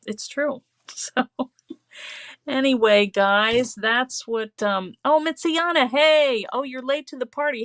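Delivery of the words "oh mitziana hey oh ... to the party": bright lifted hello to a friend; light up as a friend arrives; excited greeting. Real, not acted. Greeting a viewer who joined the live late, excited.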